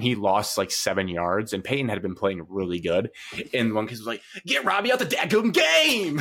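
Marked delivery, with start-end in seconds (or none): 4.5-6.2 high-pitched yelled quote of a fan; mock scream. Fan behind her screaming at the backup quarterback, a shrill yell. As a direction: shout it way up high like a fired-up kid. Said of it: "Like, screaming it".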